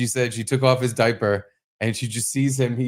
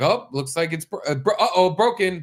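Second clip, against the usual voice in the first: put-on singsong to toddler; 7 semitones higher than usual. Dad voicing to toddler.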